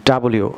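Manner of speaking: ডাব্লিউ said the British way, as "dabliu"; ডাব্লিউ, British English pronunciation. Shown as a demonstration. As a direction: model ডাব্লিউ carefully as "da-bli-u", British English. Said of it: "British ইংলিশে এটিকে ডাব্লিউ বলা হয়".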